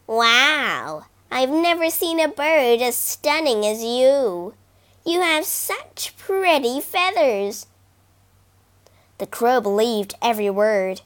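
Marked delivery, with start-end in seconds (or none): 0.1-7.7 smooth, sweet-talking fox; flattering fox. Acted. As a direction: lay the flattery on thick. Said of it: "tell the crow how lovely she looked".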